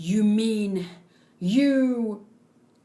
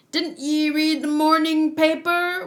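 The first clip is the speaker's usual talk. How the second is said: put-on pirate accent; 4 semitones higher, 5 dB louder than usual. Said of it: "Why is he sounding like ye?".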